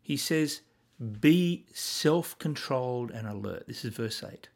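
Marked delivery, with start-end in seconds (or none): 1.2-3.7 terse command. Shown as a demonstration. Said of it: "Do you hear the difference?".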